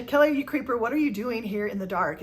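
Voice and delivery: mock-accusing tease, lightly played; teasing coworker. Coworker teasing her for sitting in the dark, playful mock accusation.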